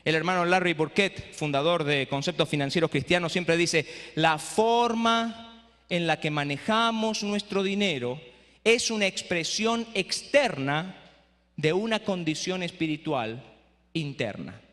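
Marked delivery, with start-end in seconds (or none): 4.1-14.6 slow quote. Shown as a demonstration. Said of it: "Se la voy a repetir de nuevo".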